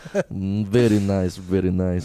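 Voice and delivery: low, lightly voiced Russian approval; Russian captor.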